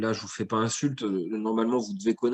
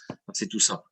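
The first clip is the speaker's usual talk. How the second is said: ironic, lower and softer aside; in air quotes; 5 semitones lower, 4 dB quieter, faster than usual. Shown as a demonstration. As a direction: say it with audible scare quotes. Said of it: "je mets des guillemets". (entre guillemets, ton ironique)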